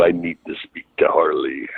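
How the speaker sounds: low, deliberate prank-call voice; Harley Race impression. Student prank-calls his trainer as him, Harley Race impression. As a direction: mimic the old wrestler to wind him up. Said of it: "I used to call him as Harley".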